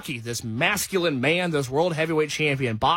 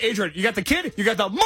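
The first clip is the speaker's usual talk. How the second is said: mock Rocky line; 4 semitones higher, faster than usual. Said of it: "you gotta do the line like".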